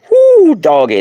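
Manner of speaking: high, loud whoop of delight; excited whoop. Real, not acted. Thrilled by the crystal, whooping loud. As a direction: let out a big yeehaw whoop. Excited at big kyanite wand.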